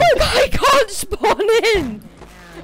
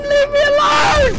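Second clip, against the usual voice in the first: panicked yell; 4 semitones higher than usual. Real, not acted. Chased by monsters.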